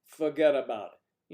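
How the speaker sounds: put-on loud, slow northern-accent catchphrase; mock northern accent, drawn out and loud; northern visitor accent. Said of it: "the accents are more like".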